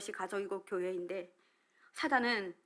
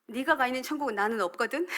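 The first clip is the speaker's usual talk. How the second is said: louder, higher mock-defiant retort; retold defiance; 4 semitones higher, 7 dB louder than usual. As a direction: talk back hotly, half laughing at yourself. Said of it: "막 대들었었던 생각이 납니다". (대들듯 높고 큰 목소리로 흉내)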